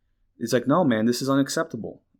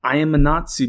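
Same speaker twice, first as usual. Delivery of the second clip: mock declaration; 4 semitones higher, 6 dB louder than usual. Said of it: "somebody says".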